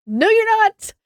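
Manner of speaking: high, loud put-on shout; mom's loud no. Mom forbids son from calling cops, shrill loud shout. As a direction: shut him down like an angry mom.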